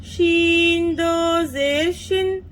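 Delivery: rhythmic sing-song spelling chant; teacher chanting the nunation table; qaida recitation drill. Shown as a demonstration. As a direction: chant each letter for children to repeat. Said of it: "देखिए कैसे पढ़ेंगे।".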